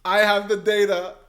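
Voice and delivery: gleeful quote. Retold or imitated. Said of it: "quoting Yang's line".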